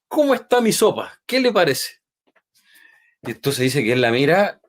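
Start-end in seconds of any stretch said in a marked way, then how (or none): 0.1-2.0 high, sweet hostess voice; sister's eager voice. Retold or imitated. Sister asks the guest preacher, high and eager. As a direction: chirp it up like a proud hostess.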